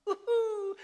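high, loud whoop of joy. Real, not acted. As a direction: let out a joyful whoop. Celebrating the money.

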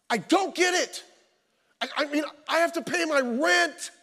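building from plain to a loud, high, exasperated plea; frustrated complaint to God. Retold or imitated. Praying man vents his frustration at God, building to loud exasperation. Venting to God after failed test.

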